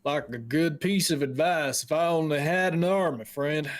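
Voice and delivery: folksy local, riled then apologetic; a hint of an upset old-timer; lightly voiced grumbling woodcutter. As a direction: stew over the noblemen, then excuse yourself.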